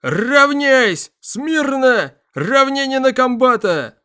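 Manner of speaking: high, drawn-out parade roar; russian drill sergeant. A narrator's reading. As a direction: bellow the drill commands slowly. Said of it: "растянутый рык".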